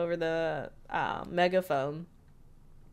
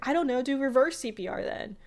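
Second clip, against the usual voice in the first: Mabel voice; 7 semitones higher than usual. Retold or imitated. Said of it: "She's like".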